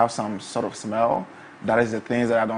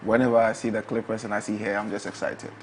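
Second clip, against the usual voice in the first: soft-spoken; 6 dB quieter than usual. Real, not acted. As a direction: speak softly, almost to yourself. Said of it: "Your sexy voice there".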